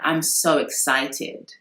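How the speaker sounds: slow, flat monotone with no excitement at all; a lightly mimicked deadpan celebrity; emotionless Kim Kardashian. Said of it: "there's absolutely no emotion".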